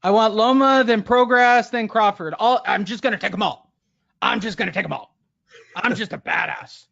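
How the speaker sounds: lightly voiced boastful fighter; cocky boxer voice. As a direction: brag like a cocky young boxer. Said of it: "Jose Ramirez wish list".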